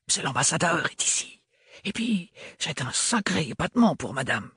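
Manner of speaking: put-on high young maid with a thick provincial French accent. A narrator's reading. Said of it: "L'accent très prononcé de l'adolescente".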